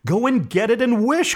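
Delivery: very high, frantic command; high-pitched feverish cry; quivering with excitement. A narrator's reading. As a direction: urge him, overcome with excitement. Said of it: "quivering with excitement".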